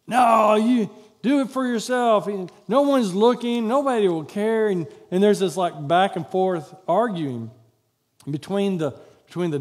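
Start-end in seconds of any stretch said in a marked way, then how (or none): 0.0-4.7 louder, pushy little devil; a louder voice on the shoulder urging selfishness; tempting devil voice. Acted. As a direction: needle him to do it for himself. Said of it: "This guy over here".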